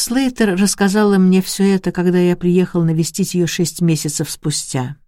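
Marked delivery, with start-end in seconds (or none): none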